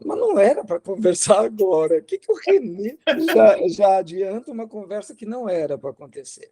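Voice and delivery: half-laughing mock complaint; amused protest. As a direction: imitate a colleague protesting through a light laugh. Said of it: "Gino começou a rir e falou".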